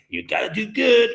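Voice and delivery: imitating a mother's high-pitched warning; mom's admonishing voice. Mom warning her kid to do good, admonishing. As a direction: push it up like a mom laying down the law. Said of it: "my mom used to tell me when I was a kid".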